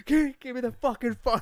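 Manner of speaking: high, loud yell in a comic retelling; mock shouted demand. Friend acts out gunman demanding the phone, mock shouting. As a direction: yell it as an excited impression.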